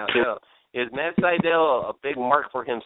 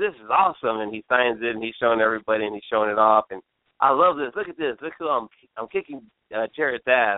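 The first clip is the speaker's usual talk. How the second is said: ordinary delivery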